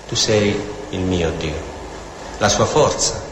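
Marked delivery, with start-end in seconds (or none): 0.1-1.8 intimate prayer voice. Shown as a demonstration. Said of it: "è in questa comunione intima con Dio".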